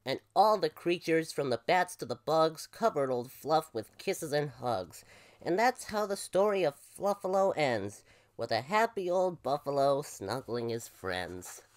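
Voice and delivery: lively picture-book read-aloud; story narration. A narrator's reading. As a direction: read a rhyming story to children.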